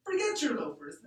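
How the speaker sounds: loud, sharp snap; snapped. A narrator's reading. Bully snapping at Rigo before ripping nickels, loud snap. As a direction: cut him off hard. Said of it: "Angel snapped".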